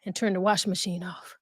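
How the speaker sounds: breathless after running; out of breath. Real, not acted. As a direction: talk while catching breath. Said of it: "the reason why I'm out of breath".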